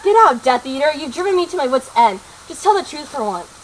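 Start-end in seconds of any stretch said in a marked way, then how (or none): 0.0-2.2 angry shout. Acted. Angry girl throws out accused murderer.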